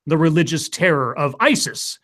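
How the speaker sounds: dramatic trailer narrator; movie trailer voice. Acted. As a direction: epic in-a-world announcer read. Reads a fake movie trailer.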